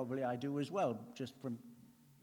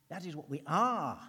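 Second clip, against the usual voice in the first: loud declaration; 3 semitones higher, 6 dB louder than usual. Shown as a demonstration. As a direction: proclaim "That is what we are" louder, punching "are". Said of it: "Make it personal".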